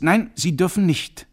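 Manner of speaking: loud, high shout cutting him off; furious professor roaring no; roaring refusal. Acted. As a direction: bellow him down. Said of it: "brüllte Corcoran".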